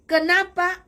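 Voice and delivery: sharp, loud, high demand; angry demand. Retold or imitated. Angry leader questioning the room, loud and high. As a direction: snap the question out angrily. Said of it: "ketuanya marah".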